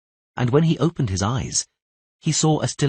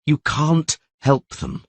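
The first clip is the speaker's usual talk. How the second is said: dull voice; 7 semitones higher, slower than usual. Acted. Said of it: "replied Dandelion in a dull voice".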